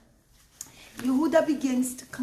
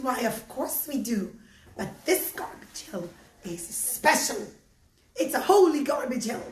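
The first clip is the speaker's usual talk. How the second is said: put-on old woman voice. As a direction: speak like a frail grateful old woman.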